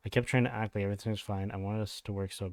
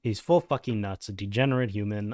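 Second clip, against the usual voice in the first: loud, punching full fucking nuts; loud outburst; 6 dB louder than usual. Real, not acted. Reacting to the ex's statement, loud outburst. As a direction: blurt it louder, stress on full.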